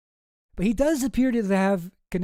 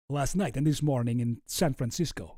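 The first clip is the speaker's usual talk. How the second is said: put-on amateur Russian accent, tried out carefully; 3 semitones lower than usual. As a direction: read it in a hammy Russian accent. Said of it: "a Russian accent".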